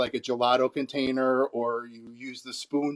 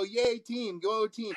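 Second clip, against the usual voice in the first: a hint of a cheerleader, higher and softer; mock cheering; 6 semitones higher, 5 dB quieter, slower than usual. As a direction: cheer for the team without real volume. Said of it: "Like, so loud".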